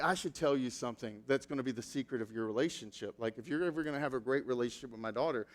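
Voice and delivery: low, quiet secret-telling; mother-in-law confiding a secret; confiding whisper. Retold or imitated. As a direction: lean in and share a secret softly. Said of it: "she leans over to me".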